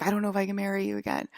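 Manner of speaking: mild mock panic, fast; freaking out. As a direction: rush it like a panicking fiancé. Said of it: "freaking out and being like".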